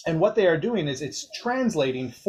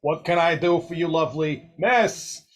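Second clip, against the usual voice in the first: Doc flirting; 3 semitones higher, 4 dB louder than usual. Acted. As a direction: charm the pretty human. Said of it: "with Doc going".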